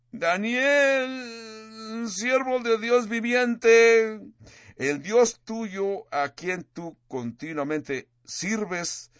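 high, slow, desperate cry into the lions' den; mournful lament. Acted. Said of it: "con voz triste, con voz de lamento, con una voz de desesperación".

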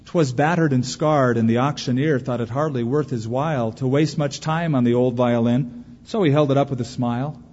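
poem recitation. Acted. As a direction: recite it like a treasured poem, measured.

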